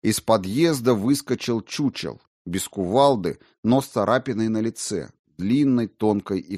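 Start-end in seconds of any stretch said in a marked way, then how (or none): none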